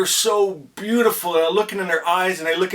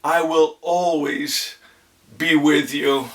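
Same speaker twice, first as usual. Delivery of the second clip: female voice; 3 semitones lower, slower than usual. Retold or imitated. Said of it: "I heard a female voice say".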